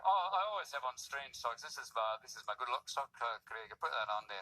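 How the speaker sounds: lapse into a mock Scottish accent; low-key, playful put-on Scottish accent. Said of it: "I changed into this accent".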